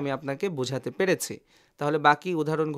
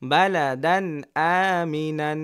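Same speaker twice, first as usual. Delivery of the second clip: read quickly; much slower than usual. Shown as a demonstration. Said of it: "দ্রুত পড়ে যাব".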